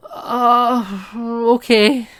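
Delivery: hammed-up flustered giving in; a startled producer caving, half-mock; stunned agreement. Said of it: "And she's like".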